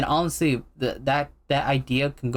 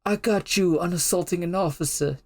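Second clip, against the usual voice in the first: higher, strained impression of a police captain; captain's smoker voice; 6 semitones higher than usual. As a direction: imitate a captain rasping on his last breath. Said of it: "I love that man's voice".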